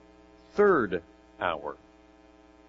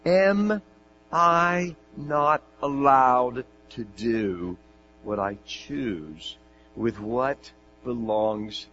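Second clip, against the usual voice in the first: slow stern master; 3 dB louder, much slower than usual. Acted. Master's key rebuke.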